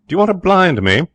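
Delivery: high loud taunt; loud mocking jeer. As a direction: jeer loudly to humiliate. Jerry mocks Ralph.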